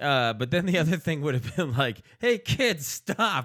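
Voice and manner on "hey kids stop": mock yelling, higher pitch. Acting out a made-up scolding of kids on bikes: acting out a yell. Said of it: "Why are you yelling at me?".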